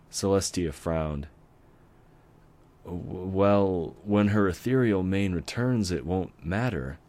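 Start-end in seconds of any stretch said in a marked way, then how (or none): 2.8-7.0 a laugh that turns nervous; nervous chuckle. Acted. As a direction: chuckle through it, uneasy. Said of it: "she said with a nervous chuckle".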